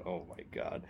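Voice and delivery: whispered, breathless dread; inner whisper. Retold or imitated. Rookie privately panicking about the lie, whisper. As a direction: mutter it to yourself in panic. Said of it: "And I'm thinking".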